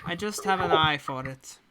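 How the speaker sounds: a lightly put-on accent for a composed agent; the employer briefing hired adventurers in her accent; hint of a foreign accent; accent NPC voice. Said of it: "she always has the accent".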